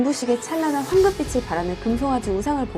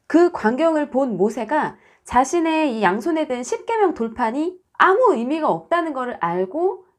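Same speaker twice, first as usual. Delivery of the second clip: ordinary delivery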